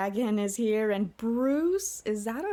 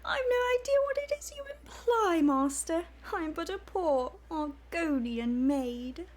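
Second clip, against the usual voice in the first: much higher, coy, prim falsetto maid voice; 10 semitones higher than usual. Acted. Argonian maid fending off her master in a high, coy voice. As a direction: play the shy maid protesting sweetly.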